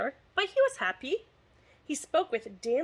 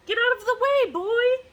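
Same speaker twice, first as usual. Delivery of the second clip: high, loud royal command; order; 12 semitones higher, 7 dB louder than usual. Acted. King ordering Boy out of the battle with a loud shout. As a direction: yell at the boy to clear off. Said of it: "ordered the king".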